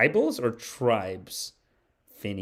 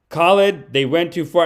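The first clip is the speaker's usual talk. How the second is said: raised, insistent call to a friend; fellow protester urging; 3 semitones higher, 4 dB louder than usual. Acted. Protester coming back a third time, acted urgent appeal. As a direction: press him one last time, louder on the name. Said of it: "third time the guy comes back".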